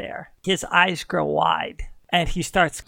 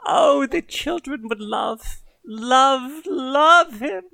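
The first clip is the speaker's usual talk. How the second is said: each love climbs higher and louder; building gush; 5 semitones higher, 4 dB louder, slower than usual. Acted. Gushing over the cat.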